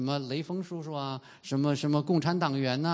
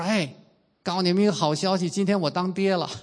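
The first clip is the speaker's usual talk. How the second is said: retold happy call; 3 semitones higher, 4 dB louder than usual. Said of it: "我一推门儿我就喊".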